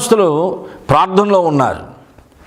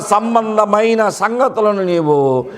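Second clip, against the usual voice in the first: slow tearful lament; 2 semitones higher, slower than usual. Retold or imitated. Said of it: "Jesus weeping over city quoted".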